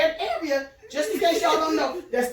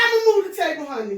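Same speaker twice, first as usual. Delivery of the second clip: mock sweet; faster than usual. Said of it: "I said".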